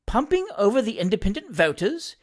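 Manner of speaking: puzzled gentleman querying what was heard; mildly taken aback, rising question; incredulous exclamation. Acted. Master questioning his valet's odd report, mildly incredulous. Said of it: "exclaimed Mister Pickwick".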